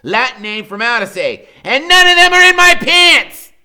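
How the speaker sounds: put-on high, loud lecturing boy; know-it-all Freak. A narrator's reading. Freak correcting his friend, high loud know-it-all. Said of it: "Freak goes".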